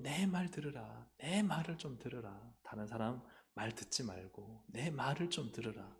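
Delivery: slow, drawn-out plea to listen; slow, measured entreaty; God's plea. Acted. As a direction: stretch it out as an earnest divine appeal. God pleading to be heard.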